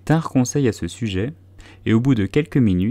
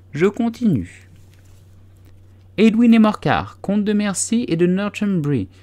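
high, loud dry history lesson; a squeaky mouse lecturing the wet animals; pompous mouse lecturing; 9 semitones higher, 3 dB louder than usual. A narrator's reading. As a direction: recite dates like a stuffy schoolmaster.

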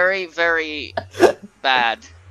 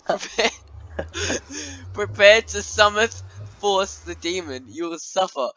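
hammed-up dark ritual speech; mock demonic summoning; 6 semitones higher than usual. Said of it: "wrong speech".

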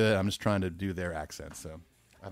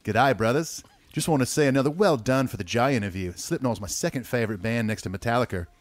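louder, hammed-up Australian read; a listener email read in an Aussie accent; 3 dB louder than usual. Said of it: "it must be in Ethan's Aussie accent".

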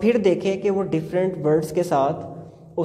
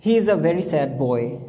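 put-on each word of "He is a very sad boy" said very slowly; slow demo sentence; 2 semitones lower, much slower than usual. Shown as a demonstration. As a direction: read it out slowly for a child. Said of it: "sad तो word मौजूद है". (बहुत धीरे-धीरे पढ़ा गया उदाहरण वाक्य)

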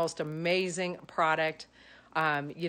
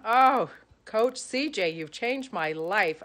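gushing; 4 semitones higher, 4 dB louder, slower than usual. Acted. Gushing thanks to her coach.

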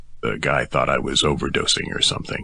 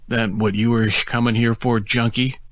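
mocking cop; 8 semitones higher than usual. A narrator's reading. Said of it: "He actually chuckled at me".

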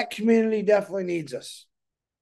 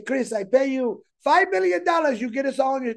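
put-on joking, higher Bangladeshi accent; 4 semitones higher than usual. Pretend Bangladesh offers him money, in a jokey Bangladeshi accent. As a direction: play a Bangladeshi caller offering cash, in a Bangladeshi accent. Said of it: "pretty good Bangladesh accent".

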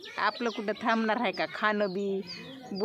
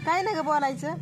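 raised question; 6 semitones higher, 3 dB louder than usual. Real, not acted. Villager refuses to speak.

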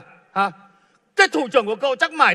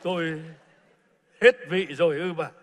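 sad realisation; 9 semitones higher, 12 dB quieter than usual. Acted. Retired boss quietly hurt, asking his wife if she lied. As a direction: let it sink in quietly.

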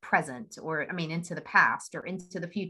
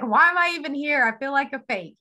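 much higher and louder, exasperated self-doubt; negative self-talk; 9 semitones higher, 9 dB louder than usual. Retold or imitated. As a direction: cry out in mock despair at yourself. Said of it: "all that negative self-talk".

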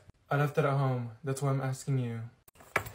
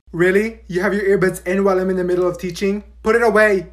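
angry; 6 dB louder than usual. Acted. Teacher scolds earbuds.

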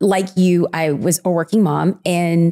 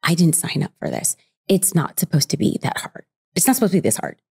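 despairing. Retold or imitated. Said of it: "I look at my husband and I'm like".

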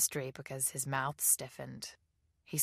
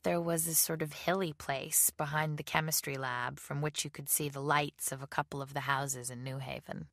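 plain reading voice

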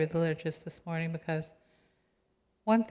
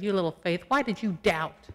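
louder, slowed scolding; stern disappointed rebuke; 5 dB louder than usual. Pretend. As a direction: drag out the rebuke. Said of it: "Or Jesus could have said".

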